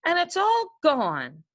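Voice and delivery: drawn out like a sad little cub; baby bear mourning his porridge, a touch of mock sorrow; baby bear crying. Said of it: "cried Wee Baby Bear".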